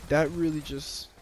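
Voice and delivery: stumbling over the words; stuttering. Real, not acted. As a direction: stammer and restart the phrase. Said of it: "I'm stuttering now".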